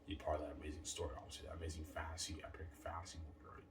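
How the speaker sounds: slightly slurred, tipsy speech. Real, not acted. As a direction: talk a little loose after drinks. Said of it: "Sorry, guys, I'm a little tipsy".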